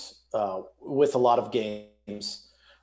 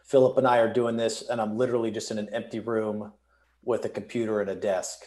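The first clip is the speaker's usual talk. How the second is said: echoey empty room; big hall echo. Real, not acted. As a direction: sound echoey, like a bare room. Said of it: "If I sound echoey".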